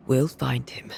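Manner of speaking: hushed whisper, searching the dark. Acted. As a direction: keep it under your breath. Searching for a ghost quietly.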